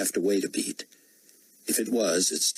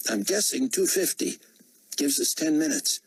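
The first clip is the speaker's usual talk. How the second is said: high, light executive voice; a higher-pitched office man; 9 semitones higher than usual. A narrator's reading. Executive speaks.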